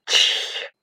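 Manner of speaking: whispered "chsh" sneeze; storybook chandelier's sneeze; mock sneeze. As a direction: sneeze in a voiceless hiss. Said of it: "чихнула люстра".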